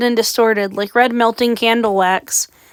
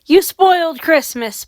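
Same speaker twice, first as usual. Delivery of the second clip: roar; 6 semitones higher than usual. A narrator's reading. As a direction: roar the accusation at her. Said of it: "Peg roared".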